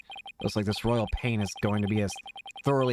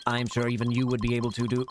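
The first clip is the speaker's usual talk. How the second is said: robot voice. Acted. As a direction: speak like a typing machine. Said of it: "what a strange robotic voice you have".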